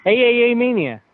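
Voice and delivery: playful jab at the show's name; trolling. Pretend. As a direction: needle him by spelling out the letters. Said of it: "now you're just trying to troll me".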